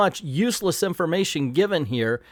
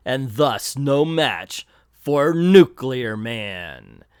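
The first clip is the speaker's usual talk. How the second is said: villain voice; 4 dB louder than usual. Acted. Villain taunts Captain Marvel.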